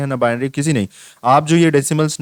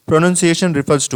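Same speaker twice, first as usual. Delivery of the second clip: question read aloud; 3 semitones higher, much slower than usual. Acted.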